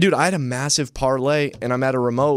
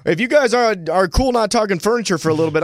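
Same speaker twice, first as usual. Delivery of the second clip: polite salesman; 6 semitones higher than usual. Retold or imitated. Acts out remote, addressing customers.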